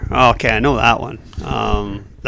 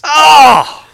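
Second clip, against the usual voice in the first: surprised; 9 semitones higher, 6 dB louder than usual. Real, not acted. Learns surprising trivia answer.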